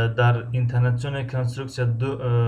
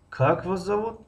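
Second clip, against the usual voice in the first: Как stretched and pitched high, the whole question raised; high-pitched question leaning on Как; stress on the first word; 8 semitones higher than usual. Shown as a demonstration. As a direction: start high on a long Как. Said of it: "аввали ҷумларо мо баланд талаффуз".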